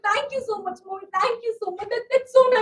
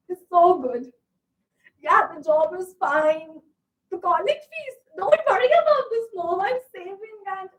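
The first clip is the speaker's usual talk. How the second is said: lower, holding back tears; fake cheerful, tearful; 3 semitones lower than usual. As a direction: pretend all is fine, voice cracking. Hiding trouble from mother on phone.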